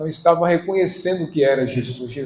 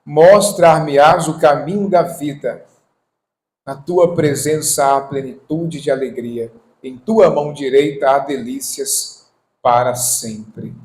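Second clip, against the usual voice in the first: proclaimed Bible verse; scripture reading; 6 dB louder than usual. Acted. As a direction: read the verse out solemnly, opening strong. Reads scripture aloud to congregation.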